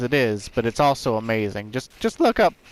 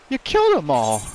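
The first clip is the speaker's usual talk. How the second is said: mock horror from the kids; hammed-up shocked gasp and outcry; 6 semitones higher than usual. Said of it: "the kids are shocked and appalled".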